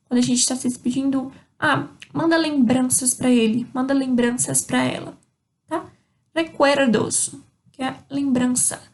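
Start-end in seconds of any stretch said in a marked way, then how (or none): 6.3-7.4 Recuerdos slowly, R tapped as re; slow Spanish R. Shown as a demonstration. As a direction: stretch Recuerdos and tap the R. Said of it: "O R tem um sonzinho de re". (Recuerdos bem devagar, com o R de re)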